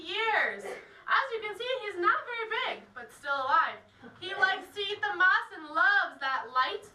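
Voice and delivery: loud tour guide voice; projecting to a group. Real, not acted. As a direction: speak up so the whole group hears.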